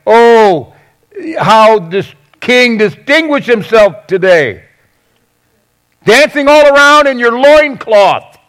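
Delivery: mocking sarcasm, pitch climbing to a high jeer; sarcastic. Wife mocking her husband for dancing in a loincloth, sarcastic. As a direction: lay into him with exaggerated mock admiration. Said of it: "sarcastically lays into him".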